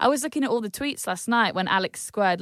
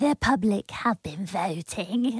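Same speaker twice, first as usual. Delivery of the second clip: put-on slow, cutesy baby talk, drawn out; 3 semitones lower, 4 dB quieter than usual. Mimicking the presenter Caroline swaying with her cue cards, Caroline's baby voice. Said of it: "why are you talking like a baby?".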